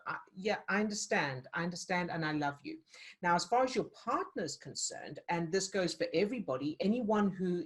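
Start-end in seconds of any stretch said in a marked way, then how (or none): 0.1-2.8 gentle acceptance. Shown as a demonstration. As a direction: calmly accept the inner voice. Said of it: "respect that part of you and go".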